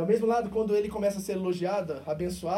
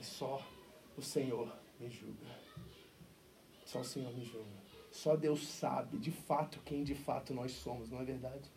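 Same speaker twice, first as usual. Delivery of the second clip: much softer, low and inward; hushed humble Paul; 6 semitones lower, 10 dB quieter than usual. Acted. Paul turning to the middle, speaking softly and humbly. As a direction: say it almost to yourself, humbly.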